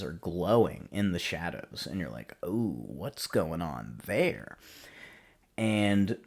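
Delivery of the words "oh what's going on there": intrigued. Retold or imitated. Viewer reacting to glowing eyes.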